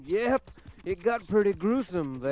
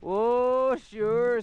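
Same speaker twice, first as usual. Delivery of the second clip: higher, louder oh sure; the ashes; 6 semitones higher, 8 dB louder than usual. Acted. Ashes calling back to the narrator, high and loud. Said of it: "said the ashes".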